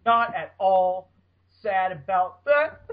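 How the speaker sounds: slow deadpan sarcasm; sarcastic. Real, not acted. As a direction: drag it out, clearly not sad. Author ignored his messages.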